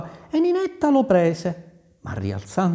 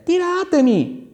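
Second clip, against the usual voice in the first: calling up the well. A narrator's reading. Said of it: "gridò alle sorelle".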